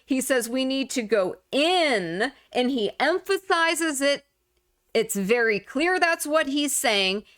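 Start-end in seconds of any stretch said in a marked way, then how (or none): 0.5-2.2 "in" punched and held, the rest level; quoting the clip, hit "in" hard; stress on in. Retold or imitated. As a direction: lean hard on the last word "in". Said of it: "you heard him emphasize the word in".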